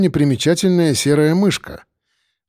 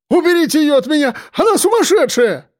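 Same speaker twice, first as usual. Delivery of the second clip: much higher, fast panicked shout; scared yell; 13 semitones higher than usual. A narrator's reading. Captor to detective, terrified high yell. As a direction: yell in terror. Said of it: "испуганно заорал Харченко".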